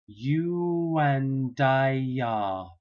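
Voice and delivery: "you and I are" very slowly with a y glide before "are"; linking Y. Shown as a demonstration. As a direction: link "I" to "are" with a y sound. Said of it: "really strange sound coming in".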